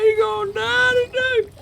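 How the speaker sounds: very high gleeful yelling; hype battle yell. Real, not acted. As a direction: screech it like a war cry. Finishing off the gator.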